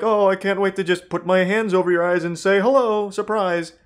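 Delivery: sweet creep voice. Retold or imitated. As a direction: play it sugary and sly. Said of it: "Before it was like".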